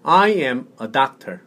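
slow, clear English for repeating; slow model reading. Shown as a demonstration. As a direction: say it slowly for a learner to copy. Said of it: "한번 따라해 보세요".

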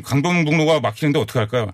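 "강변북로" with a weakly articulated ㄴ; weak ㄴ pronunciation. Acted. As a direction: quote the film line, slurring the ㄴ in "강변북로". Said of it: "발음이 왜 그래요".

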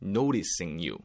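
"Noticing" as "no-ri-sing", running into "you"; rolled T, linked. Shown as a demonstration. Teacher telling learners it rolls and links, flapped "Noticing you". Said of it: "노티싱도 굴리게 됩니다".

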